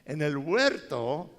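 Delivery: slow each word down for weight; slow emphatic. Real, not acted. Pastor slows for emphasis. (despacio y enfático)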